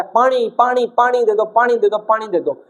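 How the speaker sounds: mildly acted desperate pleading; mock frantic yelling. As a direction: imitate someone crying out madly with thirst. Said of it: "वो पागलों की तरह चिल्ला रहा है".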